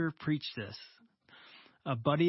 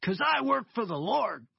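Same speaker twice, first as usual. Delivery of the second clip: higher, louder joyful claim; proud declaration; 7 semitones higher, 4 dB louder than usual. Retold or imitated. Cleaner turns back to tell the contractor, proud and joyful. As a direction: say it with proud joy. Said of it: "he turned around, and he goes".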